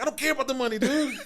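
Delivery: loud, high retold retort; emphatic retort. Retold retort about getting paid.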